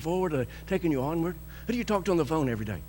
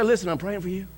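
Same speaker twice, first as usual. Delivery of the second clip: tender prayer. Retold or imitated. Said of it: "What you need is somebody to say".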